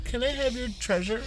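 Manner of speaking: soft, polite pirate request. Acted. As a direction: ask sweetly for the treasure. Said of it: "The most polite pirate ever".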